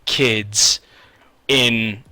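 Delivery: imitating a shocked store clerk; stunned disbelief. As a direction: spell it out slowly, stunned. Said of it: "And she's like".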